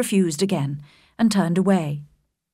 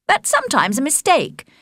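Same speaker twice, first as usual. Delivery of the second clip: put-on higher, knowing young woman's voice; wise Charlotte; 7 semitones higher than usual. A narrator's reading. Charlotte correcting Elizabeth about Jane, wisely. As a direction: sound like you know better. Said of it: "shaking her head wisely".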